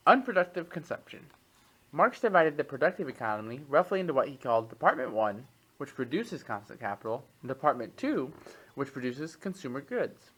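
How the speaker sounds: measured expository read-aloud, crisp phrase by phrase. Acted. Podcast host reads an economics text to co-host, reading aloud. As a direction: read it out like a written treatise.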